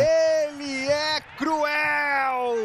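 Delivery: drawn-out ecstatic shout; explosive goal commentary. Real, not acted. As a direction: howl it in triumph. Goal celebration.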